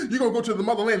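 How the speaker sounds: hammed-up tearful shout of the promise; fake-sob the motherland pitch; mock crying preacher. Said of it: "He sells the motherland as".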